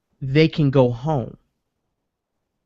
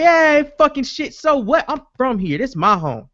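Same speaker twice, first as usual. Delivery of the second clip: furious yelling; 10 semitones higher than usual. Retold or imitated. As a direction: yell at the reporter that this is your home. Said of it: "And the guy like".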